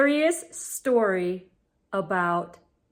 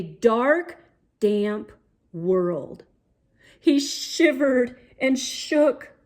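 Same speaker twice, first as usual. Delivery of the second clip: put-on lively read-aloud for young kids; storybook reading. A narrator's reading. Reading a picture book to boys and girls, lively storybook voice. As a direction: paint the adventure for the little ones.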